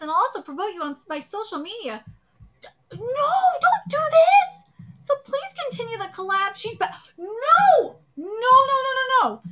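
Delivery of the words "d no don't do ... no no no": high, slow, half-crying plea, then loud; panicked begging. Acted. Girl begging her rival to keep the collab, crying. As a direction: beg desperately, voice cracking.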